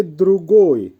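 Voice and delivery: teacher modelling দ্রুগোই; careful pronunciation demo. Shown as a demonstration. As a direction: say দ্রুগোই clearly as দ্রু-গোই. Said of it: "উচ্চারণ হবে". (দ্রুগোই-এর স্পষ্ট উচ্চারণ)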